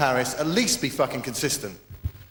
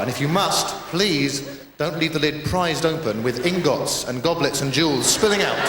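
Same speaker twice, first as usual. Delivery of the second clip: public information ad parody. Retold or imitated. Comic mocking crime adverts, lightly done earnest ad voice. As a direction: read it like a government safety ad. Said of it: "something that sounds like it".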